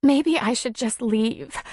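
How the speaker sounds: slow and high, hurt; sniffling, slow. A narrator's reading. Darla offering to leave Tom, sniffling and slow. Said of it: "She sniffed and wiped at her eyes".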